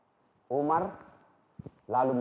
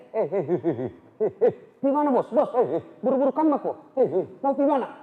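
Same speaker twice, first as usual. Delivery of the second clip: a lightly voiced cheeky street man, higher; a chatty Meccan who keeps calling out "bos"; hailing a passer-by in a lightly put-on voice; 6 semitones higher, 4 dB louder than usual. Street man greets Umar.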